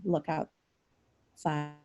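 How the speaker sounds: ordinary delivery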